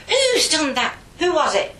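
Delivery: high, loud interrogation; outraged nun. Retold or imitated. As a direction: demand the culprit, mock-furious. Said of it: "that kind of attitude".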